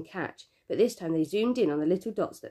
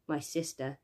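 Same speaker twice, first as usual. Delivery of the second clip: soft, lower, barely voiced; quiet guilty whisper; whispered confession; 3 semitones lower, 7 dB quieter, slower than usual. A narrator's reading. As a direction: confess it under your breath. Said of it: "I whispered".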